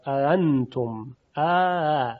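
slow اانتم with the second hamza blurred into the a; one gliding a at the start of اانتم, no hard stop; tashil, softened hamza. Shown as a demonstration. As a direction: ease through اانتم between hamza and alef.

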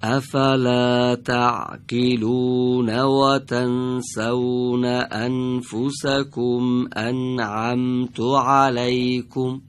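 slow, even Quran recitation in one breath; fluent recitation. Shown as a demonstration. Teacher reads first line for class, slow recitation.

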